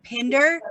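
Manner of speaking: "Pinder" drawn out with the I sounded; pronounced I. Shown as a demonstration. Host clarifying guest's surname for New England listeners, pronounced I. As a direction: say "Pinder" slowly, clearly voicing the I. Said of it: "we're pronouncing the I".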